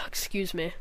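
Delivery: breathy unvoiced "Excuse me."; whispered excuse me. Real, not acted. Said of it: "I keep, I keep burping".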